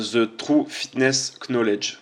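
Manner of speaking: slow, clumsy English accent from a French speaker; a French speaker's poor English accent; bad English accent. Real, not acted. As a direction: sound out the English name in a weak English accent. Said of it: "j'ai un accent anglais pourri".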